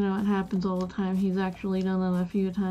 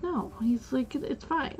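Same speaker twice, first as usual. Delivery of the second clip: higher, softer quoted reassurance; reassuring coworker; 4 semitones higher, 5 dB quieter than usual. Retold or imitated. Coworker answering a worried cashier, reassuring. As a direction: gently wave the worry away, as a coworker.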